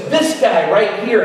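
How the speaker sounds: single someone out across a crowd; imitating an insistent call. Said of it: "a musician speaks up".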